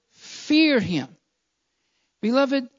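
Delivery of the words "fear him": "fear" stretched and stressed, falling onto "him"; emphasis on "fear him". Shown as a demonstration. Preacher singles out the key word, "fear" stressed with a falling tune. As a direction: lean firmly on "fear", let "him" drop. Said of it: "I really want to emphasize that word".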